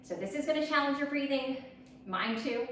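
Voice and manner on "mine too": chuckling through the words; a breathy laugh while talking. Real, not acted. Laughs at her own breathing.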